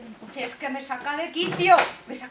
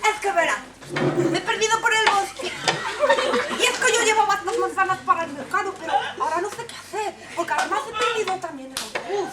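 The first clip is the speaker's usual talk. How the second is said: put-on high cackling old witch; old hag; 5 semitones higher than usual. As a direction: croak it like a hag. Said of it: "la bruja".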